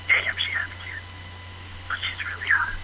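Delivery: whispered aside; barely audible, muttered to himself; under his breath. Real, not acted. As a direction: let it slip out in a slow, voiceless murmur. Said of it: "like, under his breath".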